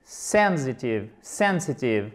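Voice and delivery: "Sensitive" with SEN stressed and falling; stress on first syllable. Shown as a demonstration. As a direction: drill "Sensitive", leaning on SEN. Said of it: "sur la première syllabe".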